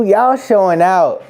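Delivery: stretched-out shout of the catchphrase; hyped streamer catchphrase, stretched and loud; loud drawn-out hype. Real, not acted. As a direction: belt it slow and loud to the chat. Louder repeat of catchphrase.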